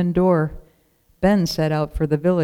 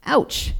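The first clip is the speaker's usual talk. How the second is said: ouch; 8 semitones higher than usual. A narrator's reading. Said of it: "as the brambles caught her".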